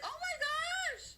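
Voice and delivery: high, slow, hammed-up shocked gasp; pearl-clutching. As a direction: clutch your pearls in mock horror. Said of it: "Don't be clutching your pearls".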